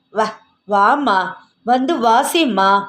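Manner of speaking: slow, coaxing, lightly voiced old father; pleading old father. Dazed father coaxing his daughter to play the veena, slow and pleading. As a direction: draw each word out, begging gently.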